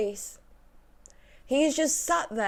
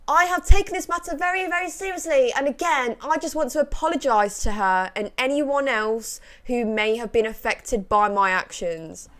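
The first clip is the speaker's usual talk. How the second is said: mock his apology; mocking read; 3 semitones higher than usual. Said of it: "this was Drake Bell's response".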